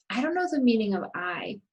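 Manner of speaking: quick "I don't", "the" and "of", weight on KNOW, MEANING and I; brisk model sentence falling on the final I; quick small words. Shown as a demonstration. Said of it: "notice I and don't are really fast".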